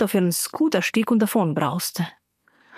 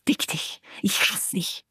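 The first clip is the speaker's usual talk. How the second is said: softer, whispered venom; hissed curse; 6 dB quieter than usual. A narrator's reading. She types hate to her married lover, hushed hiss. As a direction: bite the words out under your breath. Furious message typed to lover.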